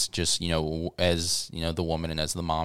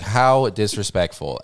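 mock offended; 3 semitones higher, 5 dB louder, slower than usual. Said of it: "I was like".

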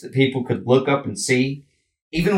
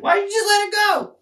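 a sudden outraged shout at the leaders; exasperated shout. Real, not acted. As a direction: shout it up at them in disbelief. Outraged at Biden.

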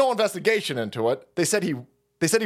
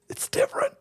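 much higher, pinched cartoon squeak; squeaky high voice. Host answering himself in a mock debate, squeaky high voice.

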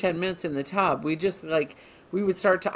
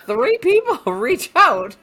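laughing; 9 semitones higher, 7 dB louder, much slower than usual. Real, not acted. Joking about having three fans.

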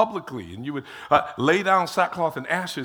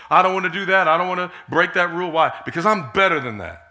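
louder, firm inner voice; self-talk quote; 6 dB louder, faster than usual. Retold or imitated. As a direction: declare it to yourself with conviction. Acting out own inner self-talk.

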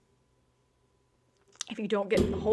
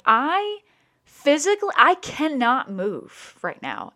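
high, louder, pleading in pain; desperate plea; 6 semitones higher, 4 dB louder, slower than usual. Retold or imitated. To her partner who says get up, a high desperate plea. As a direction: cry out that you truly cannot move.

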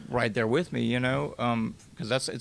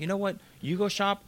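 put-on snapping at girlfriend; 8 semitones higher than usual. Fight with girlfriend.

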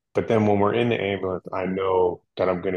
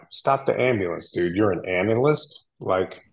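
higher, louder, mock-urgent joking outburst; mock alarm; 4 semitones higher, 4 dB louder than usual. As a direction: playfully ham up the panic. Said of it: "Joking, of course".

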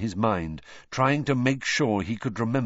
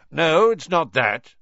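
1 gruff Moody; 8 semitones higher, 7 dB louder than usual. A narrator's reading.

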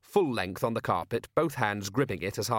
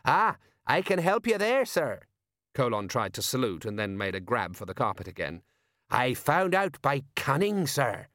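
eager; 3 semitones higher than usual. Acted. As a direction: jump in keen to help a superior. Sergeant eagerly offering help to his superior.

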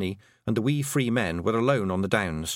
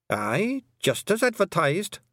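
cheerful Feegle; 9 semitones higher, slower than usual. Acted. Rob happily describing his heaven.

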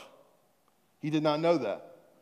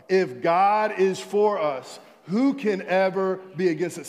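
louder read-along; 4 dB louder than usual. Shown as a demonstration. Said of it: "read it one more time".

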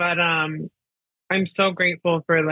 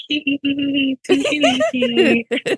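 high, giggly villain hee-hee; villain laugh; 11 semitones higher, 3 dB louder than usual. Retold or imitated. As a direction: cackle like a cartoon villain. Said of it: "you bring out the villain laugh in me".

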